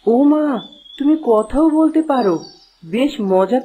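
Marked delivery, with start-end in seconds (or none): 0.1-2.3 amazed surprise. Acted. Girl amazed to hear the fish talk, surprised. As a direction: gasp it out like a child seeing magic.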